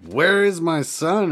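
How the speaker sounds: high, slow, drawn-out demand; Goku. Acted. Goku demands his son back, high drawn-out mock cry. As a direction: stretch it into a mock heroic cry.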